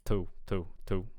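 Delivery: "too" repeated with a short vowel. Shown as a demonstration. Coach imitates the clip's word, short "too". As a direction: say each "too" quite short, slightly overdone. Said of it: "it's quite short".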